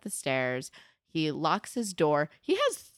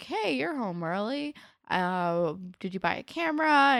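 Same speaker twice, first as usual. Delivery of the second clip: higher, sweetly fake dad; lightly voiced fake-nice father; mock friendly dad; 5 semitones higher than usual. Dad greeting son with fake sweetness.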